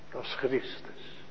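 breathed, soft, almost no voice; whispered. Acted. Preacher naming Christ to the congregation in a whisper. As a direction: let it fall into an awed whisper. Awed conclusion after angel army.

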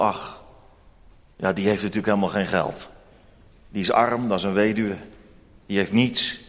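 lager, laatdunkend in zichzelf; minachtend denkend. Acted. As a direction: schamper binnensmonds, als een hebberige rechter. Rechter denkt minachtend bij zichzelf. (rechter die in gedachten de arme weduwe afdoet)

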